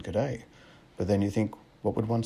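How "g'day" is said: light broad Australian "G'day"; a casual Aussie "G'day", lilting up; broad Aussie accent. Pretend. Preacher imagining greeting a football coach, broad Aussie accent. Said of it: "say in a broad Aussie accent".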